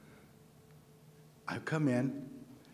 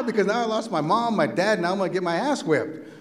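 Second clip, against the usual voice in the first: higher, hammed-up child's wail; mock crying; 4 semitones higher, 4 dB louder than usual. Slapped boy who lost his parents, mock crying wail. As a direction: wail the complaint like a bawling kid. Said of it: "makes me cry even louder".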